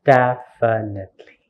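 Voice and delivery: "Definitely" split into syllables for counting. Shown as a demonstration. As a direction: sound out "Definitely" one syllable at a time. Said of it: "how many syllables do we have".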